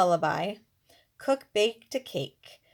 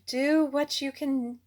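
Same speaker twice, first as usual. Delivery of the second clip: a touch higher and louder; king's first go-ahead; 5 semitones higher, 3 dB louder than usual. Acted. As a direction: wave him on with a sleepy nod. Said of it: "the king yawned".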